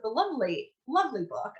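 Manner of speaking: mock-admiring, pitch lifted on lovely; sarcastic. Real, not acted. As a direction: say it with ironic praise. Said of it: "I'm using sarcasm here".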